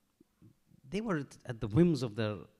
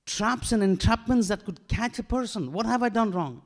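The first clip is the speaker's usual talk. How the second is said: pleading protest; 7 semitones higher, 5 dB louder than usual. Retold or imitated. Yusuf protests innocence.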